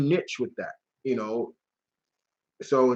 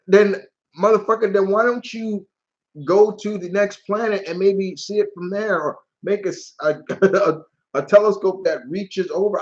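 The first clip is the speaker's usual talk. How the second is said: higher, worked-up comic retort; mock exasperation; 6 semitones higher, 4 dB louder than usual. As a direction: argue back, playfully fed up. Mock retort to cartoon villain.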